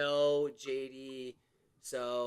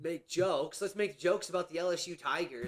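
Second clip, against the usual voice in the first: put-on Creole Southern accent; 3 semitones higher, 7 dB louder than usual. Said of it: "Creole Southern accent forever now?".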